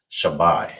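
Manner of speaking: shabai drawn out slowly, sha then bai; slow demo. Shown as a demonstration. Teacher to class teaching seven, slow clear shabai. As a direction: give shabai slowly for them to copy. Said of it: "how you will say seven is".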